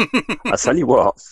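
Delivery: slow, drawn-out Sheffield warning; lightly cross Sheffield scolding, dragged out; mock-stern Sheffield telling-off; stern Sheffield accent. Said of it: "when she was cross with you and said in the same accent".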